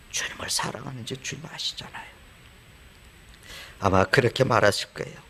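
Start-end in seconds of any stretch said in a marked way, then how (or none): 0.1-2.1 much softer, shamefaced murmur; ashamed and small. Retold or imitated. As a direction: say it humbled and small. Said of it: "부끄럽고 초라한 모습으로". (부끄럽고 초라하게 아주 작은 목소리로)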